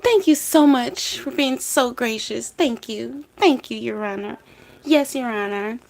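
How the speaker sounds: high, put-on grateful voice; imitating gushing Sarah. Imagined prize winner thanking the judge, high mock-gracious gushing. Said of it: "She imagined a Nobel Peace Prize".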